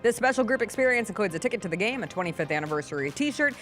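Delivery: energetic announcer ad voice; punchy radio spot delivery; ad read. Acted. Ad read aloud.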